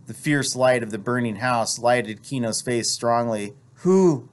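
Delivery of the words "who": sharp high, loud demand. A narrator's reading. Kino questions his wife about the house fire, demanding. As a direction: demand it in one higher, louder word. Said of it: "he demanded".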